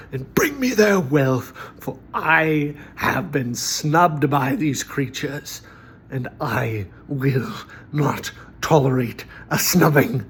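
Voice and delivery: anti-paladin lord, a hint of menace, partly whispered; scheming dark lord giving orders, lightly hammed; broad villain voice. Shown as a demonstration. Game master voicing an anti-paladin of Bane demanding slaughter, partly whispered. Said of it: "one more that's a little bit more broad".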